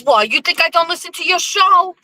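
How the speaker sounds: put-on high-pitched Portuguese-accented retort; thick Portuguese accent. Blackie teasing her about listening, Portuguese accent. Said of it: "with this thick Portuguese accent".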